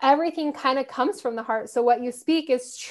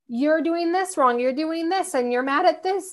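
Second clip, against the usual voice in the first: higher-pitched nagging at oneself; retold self-scolding; 4 semitones higher than usual. Speaker imitating her critical self-talk, mildly scolding. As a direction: list your faults in a raised, mildly scolding tone. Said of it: "not speaking life over myself".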